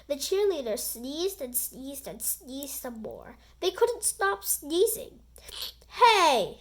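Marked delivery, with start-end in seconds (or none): 5.9-6.6 high, loud call from the stands; shouting fan. Acted. Fan in the bleachers yells out, high and loud. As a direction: grab everyone's attention. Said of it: "shouted a fan".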